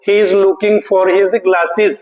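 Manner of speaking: the right answer, very slow; slow answer read. Shown as a demonstration. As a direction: lay out the answer word by word. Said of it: "सही जो answer है". (सही उत्तर बहुत धीरे पढ़ना)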